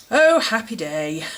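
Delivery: dry, sarcastic English "Oh, happy day". Shown as a demonstration. Vlogger reading a planner quote, inevitably sarcastic. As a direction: say it cheerfully but let sarcasm creep in. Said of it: "without it sounding sarcastic".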